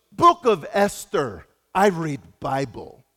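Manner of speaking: put-on slow, broken-English Croatian accent; rough imitation of a Croatian driver, slow; made-up Croatian accent. Pastor imitates the Croatian driver quoting the Bible, in a slow accent. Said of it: "I don't know how to do a Croatian accent".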